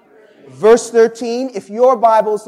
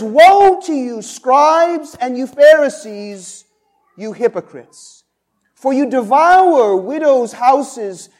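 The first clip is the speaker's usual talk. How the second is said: loud, forceful scripture reading with a punch on woe; preaching Jesus' woe; 3 dB louder than usual. Acted. Pastor voicing Jesus rebuking the scribes and Pharisees, forceful preaching. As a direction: thunder the rebuke at the hypocrites.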